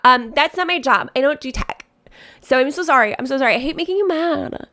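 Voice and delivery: lightly hammed-up pleading apology; a mock helpless planner begging forgiveness; exaggerated apologetic planner. Planner telling client she doesn't do tech, exaggerated apology. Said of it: "obviously really exaggerating this planner".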